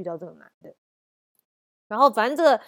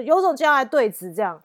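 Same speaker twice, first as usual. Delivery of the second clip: louder, higher taunting dare; fierce; 5 semitones higher, 8 dB louder than usual. Retold or imitated. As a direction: dare her, hard. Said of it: "我就很凶".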